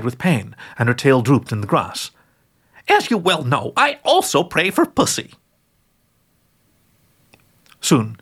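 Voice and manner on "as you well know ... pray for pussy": put-on higher, cooing old grandma witch; a doting old witch sharing her recipe; sweet old witch. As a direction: croon it like a kindly granny who bakes angels. Gertrude's voice in story.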